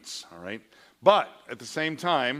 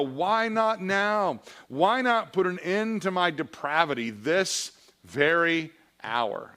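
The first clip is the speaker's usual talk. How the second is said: slow, higher, drawn-out plea; a mild desperate prayer; pleading cry; 5 semitones higher, slower than usual. Acted. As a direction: stretch the why not now in anguish. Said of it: "I uttered cries of misery".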